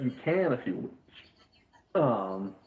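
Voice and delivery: whispered, in-character concession; hushed, whispery game-master character voice; acted whispery aside. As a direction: let it out in a whisper.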